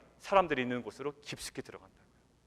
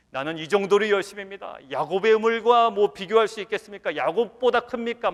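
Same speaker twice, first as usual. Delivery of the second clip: loud, higher-pitched imitation of zeal; zealous boasting; 5 semitones higher, 8 dB louder than usual. Believer boasting of zeal beside Jacob's well, loud mock fervor. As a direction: boast loudly as an overeager believer.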